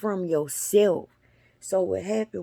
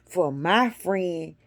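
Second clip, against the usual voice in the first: eager excitement; 3 semitones higher than usual. Retold or imitated. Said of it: "I said".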